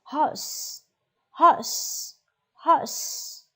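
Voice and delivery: whispering the word; whispered. Shown as a demonstration. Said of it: "whispered drill".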